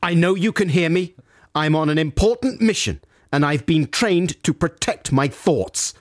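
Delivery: lightly acted mission declaration; imagined secret agent. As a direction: address the mind reader deliberately. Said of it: "So then I think something like".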